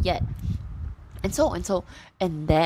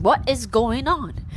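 higher, slowed-down baffled what is going on; bewildered question; 6 semitones higher, slower than usual. Retold or imitated. Narrator echoing the husband's question, slower, higher, baffled. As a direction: stretch it out, higher, in disbelief. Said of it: "And I'm also asking".

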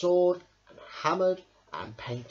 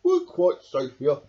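gentle reassurance; 9 dB louder than usual. A narrator's reading. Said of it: "said Badger gently".

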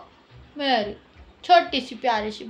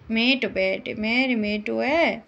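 softer, slower loving murmur; tender coo; 4 semitones lower, 4 dB quieter, slower than usual. Real, not acted. Mother coos softly to her pet parrot. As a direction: cuddle the bird with your voice.

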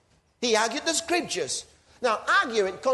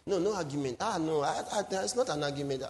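softer, mock-timid okays to back off; meek giving in; 3 semitones lower, 6 dB quieter, faster than usual. Preacher mocking believers who avoid argument, meek soft okays. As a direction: imitate a pushover folding, half-hearted and soft. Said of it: "He wants us to just chill out and say".

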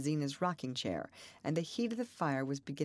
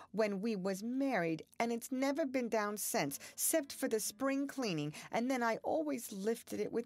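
mounting higher, voice breaking, slowing at the end; 7 semitones higher than usual. A narrator's reading. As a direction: grief rising in pitch as she tells it. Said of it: "Her voice broke".

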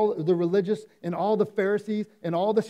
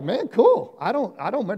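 smug mock reply; 4 semitones higher, 4 dB louder than usual. Mocking smug listener reply.

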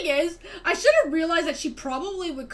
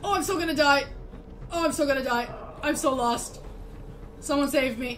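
mild panic. Real, not acted. Chased and lost in game.

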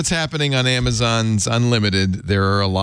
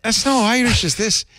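a higher, hammed-up Russian accent; 11 semitones higher than usual. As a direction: joke Russian accent, playing it up. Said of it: "I was using Russian accent".

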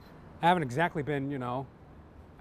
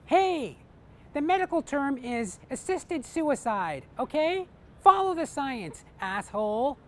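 much higher, slow, smug put-on voice; vaxxer shouting back; 7 semitones higher, slower than usual. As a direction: lecture him like a snotty know-it-all. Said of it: "the covid vaxxer shouts out".

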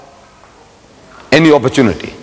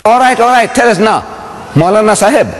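pressing challenge; 5 semitones higher than usual. Retold or imitated.

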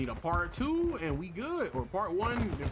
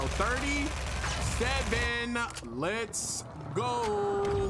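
excited cheer; 7 semitones higher, much slower than usual. Real, not acted. Celebrating a win.

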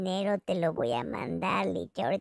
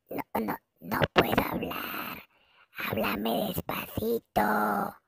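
toneless whisper, slowing down; fake voiceless whisper; 3 dB quieter than usual. To Licha, dodging the money talk with a faked whisper. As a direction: play the lost voice, barely breathing the words.

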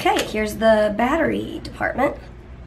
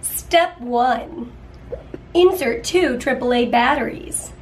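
reading steps like a TV ad; infomercial voice; slower than usual. Pretend. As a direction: announce each step like an infomercial. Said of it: "infomercial voice on".

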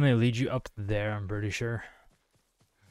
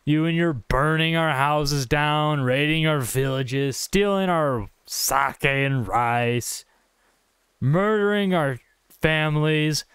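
slow, lingering indulgent teasing; playful mock chiding. Player gently chides the silly Mongols, mock indulgence. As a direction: draw the words out, making light of it. Mock scolding of game enemies.

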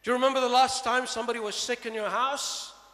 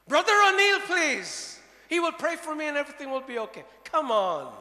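loud, high and hurried; frantic pleading; 6 semitones higher, 7 dB louder than usual. Acted. Man on the branch begging for the pastor, fast and high. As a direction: babble it out fast in panic. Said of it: "is anybody up there".

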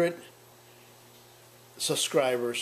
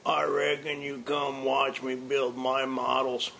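without cigar. Shown as a demonstration. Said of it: "All right, now without the cigar".

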